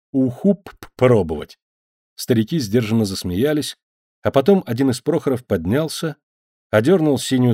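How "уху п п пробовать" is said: plaintive stammering voice; stammering plea. Acted. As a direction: stumble over the p sounds pitifully. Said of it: "жалобно улыбнулся".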